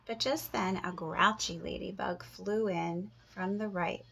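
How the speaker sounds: put-on lively read-aloud for kids; storybook voice; story narration. A narrator's reading. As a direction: read it like a picture book to the class. Teacher reads story aloud.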